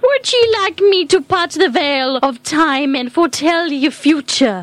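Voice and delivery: mystic crone offering prophecy; lightly voiced witch seer; fortune teller.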